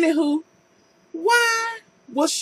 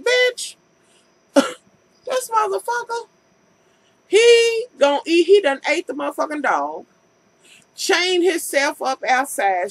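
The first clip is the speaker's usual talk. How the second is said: dog's inner voice; 3 semitones higher than usual. Retold or imitated. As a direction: squeal it like the terrified dog. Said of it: "I guess that dog was like".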